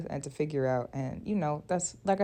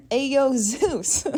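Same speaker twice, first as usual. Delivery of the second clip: drawn-out, high, loud mock call; comedic praying mom; 8 semitones higher, 8 dB louder, much slower than usual. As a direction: holler up to a god, hammed up for laughs. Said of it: "but just for comedic sake".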